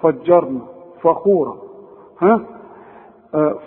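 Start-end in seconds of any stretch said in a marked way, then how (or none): 0.0-1.6 فجرنا and فخورة with a dark "fa"; wrongly heavy Fa. Shown as a demonstration. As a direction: back the vowel after ف. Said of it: "كل دي غلط".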